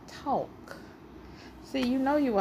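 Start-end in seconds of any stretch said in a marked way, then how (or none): 0.1-0.8 breathy whispered word. Real, not acted. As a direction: whisper it as an aside. Whispered aside.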